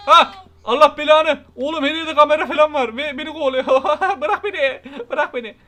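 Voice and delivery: panicked, laughing shouts; being chased. Real, not acted. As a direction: yell and laugh while fleeing. Chased by the neighbor in game.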